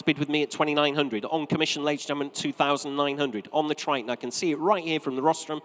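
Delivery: measured, practised saleroom delivery; auctioneer's patter. Real, not acted. Auctioneer to room, web and telephone bidders on the Triton, steady patter. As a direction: keep the figures rolling to coax another bid. Auctioneer presents lot and takes bids.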